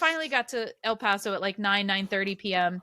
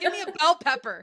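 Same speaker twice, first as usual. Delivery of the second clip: laughing; 7 semitones higher than usual. Real, not acted. Joking plea for a pepper.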